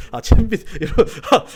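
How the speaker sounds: words pushed out through laughter; laughing. Real, not acted. Preacher recalls the lice comb to the congregation, laughing. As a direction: break up laughing while talking.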